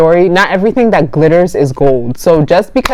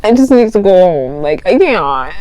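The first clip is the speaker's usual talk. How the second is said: mock tearful plea, slightly raised; pretending to cry; 3 semitones higher than usual. Girl wanting to go home, feigned near-crying. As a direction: fake being on the verge of tears. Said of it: "pretending I was gonna cry".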